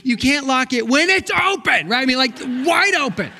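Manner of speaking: high, loud laughing protest; mock-exasperated husband laughing at wife; laughing exasperation. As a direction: laugh through the correction. Teasing wife about open door.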